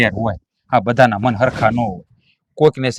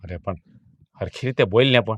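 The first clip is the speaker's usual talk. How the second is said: gentle rebuke; 2 semitones lower, 6 dB quieter than usual. Acted. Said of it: "પણ પ્રેમથી બોલાય".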